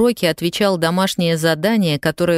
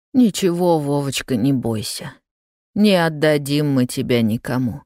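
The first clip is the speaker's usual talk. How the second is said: calm and soothing. Acted. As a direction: comfort a frightened child. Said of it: "спокойно говорила Софья Сергеевна". (прабабушка спокойно утешает испуганного правнука)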